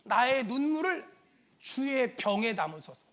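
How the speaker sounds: soft, low plea to God; quiet scriptural supplication; David's prayer. Acted. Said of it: "다윗이 이런 기도를 해요".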